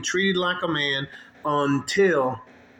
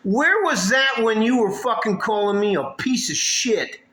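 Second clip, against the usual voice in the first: higher, louder furious retort; angry comeback; 8 semitones higher, 5 dB louder than usual. Retold or imitated. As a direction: snap back at her, heated and high. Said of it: "And I was like".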